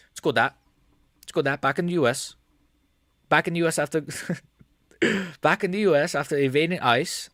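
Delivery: Aspinall impression. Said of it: "Impressions of Andy Aspinall sneaking Fluffy".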